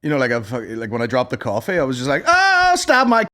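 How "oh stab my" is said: high, slow mock rage; over-the-top aggressive. Shown as a demonstration. Showing his fake rage after dropping coffee, high and slow. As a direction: ham up the fury. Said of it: "just so over the top aggressive".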